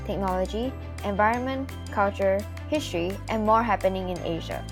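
measured, evenly paced host read; scripted podcast intro. Acted. Student host welcomes listeners to the podcast, scripted intro read. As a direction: read out a prepared show introduction.

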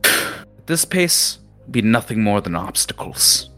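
high-pitched lecturing captain voice; berating captain. Acted. Captain lecturing the students on wasted privilege, high-pitched and stern. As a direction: scold them like a disappointed old captain.

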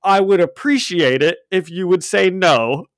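reading the comic's Fury line, lightly imitating his movie voice; Samuel L. Jackson voice. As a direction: play it like a deadpan movie spymaster, hint of Jackson. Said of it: "I read everything in Samuel L. Jackson voice".

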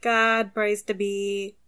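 a hammed-up New York-New Jersey preacher, loud at the start; New York priest. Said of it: "it's a very specific type of voice".

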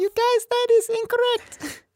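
robot voice. Pretend. Robot math voice.

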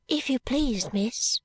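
put-on high, soft child's voice; a small girl speaking shyly; soft little girl. A narrator's reading. Little maid to Esther, soft and shy child's voice. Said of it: "said the little girl in a soft voice".

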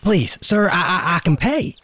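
loud, stammering, anxious plea; nervous stammer. Acted. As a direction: beg for help nervously. Nervous plea to medicine man.

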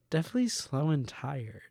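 lightly voiced tired mom, slow; a hint of a weary mom at a water park. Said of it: "this is an, uh, an impression of".

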